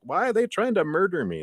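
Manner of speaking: high, alarmed squeal of panic; hammed-up terrified cry; mock panic. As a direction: squeal it like you're being dragged under. Rescuer pulled under.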